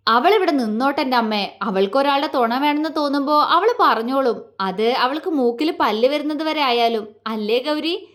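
a light teasing lilt; mischievous. Acted. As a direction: tease her gently while defending her. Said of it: "Vinod കുസൃതിയോടെ അവളോട് ചോദിച്ചു". (കുസൃതിയോടെ)

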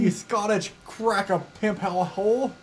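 slow fake British accent. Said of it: "you don't talk like a British person".

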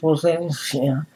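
breathy whisper tossed off to the side; whispered aside. Real, not acted. Ranting vlogger whispers a quick aside to viewers.

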